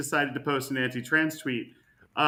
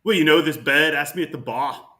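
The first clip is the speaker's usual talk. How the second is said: put-on Scottish accent; 5 dB louder than usual. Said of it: "That's better".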